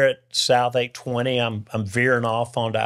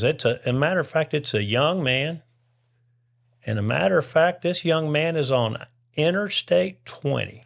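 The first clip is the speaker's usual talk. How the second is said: radio preacher; 6 semitones higher than usual. Retold or imitated. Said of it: "He says".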